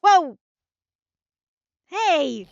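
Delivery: startled yell. Acted. Witness breaking down.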